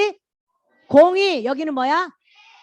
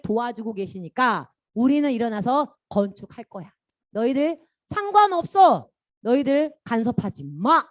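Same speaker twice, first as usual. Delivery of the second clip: firm and clear; 3 dB louder, slower than usual. Retold or imitated. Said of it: "명확하게".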